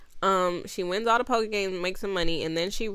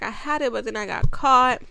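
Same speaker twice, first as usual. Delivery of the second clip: higher, rising to louder panic; high whiny excuse; 6 semitones higher, 6 dB louder than usual. Retold or imitated. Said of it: "she's like".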